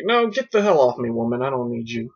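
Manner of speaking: hammed-up refusal, dropping back down; mock rebuffing man. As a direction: imitate a man brushing off a woman. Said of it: "And then he's like".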